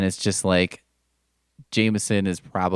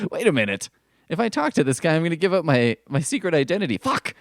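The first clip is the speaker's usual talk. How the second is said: higher, rising panicky realisation; hammed-up hero suddenly catching himself; mock panic; 8 semitones higher than usual. Spider-Man realising he'd reveal his identity, mock panic.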